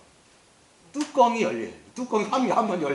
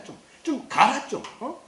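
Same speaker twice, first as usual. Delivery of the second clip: exasperated God; 8 semitones higher, slower than usual. Acted. God losing patience with Moses.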